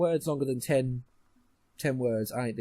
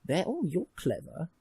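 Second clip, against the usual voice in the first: mock admiration; 5 semitones higher, slower than usual. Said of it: "they want you to go".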